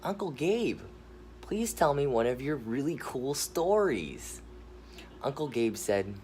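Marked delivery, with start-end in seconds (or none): 0.0-4.4 put-on lightly raised pleading kid voice; young boy voice. Nephew begging uncle for a bedtime story, raised boy voice. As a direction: ask like an excited little boy. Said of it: "Jeremiah said".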